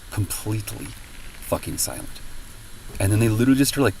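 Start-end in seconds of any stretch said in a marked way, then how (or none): 0.1-2.2 hushed echo. Real, not acted.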